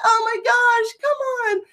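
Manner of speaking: high, mock-weary sigh of words; exasperated. Mom fed up with crying kids, high and weary. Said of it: "And I'm like".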